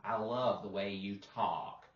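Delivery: Mississippi drawl on "talk", L left out; Mississippi-accented, open vowel in "talk". Shown as a demonstration. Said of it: "the Mississippi accent".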